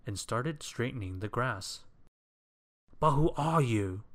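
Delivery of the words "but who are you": high, loud, put-out demand; affronted and raised in pitch; indignant questioning. A narrator's reading. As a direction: fussily challenge an unwelcome stranger. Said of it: "he asked over his shoulder".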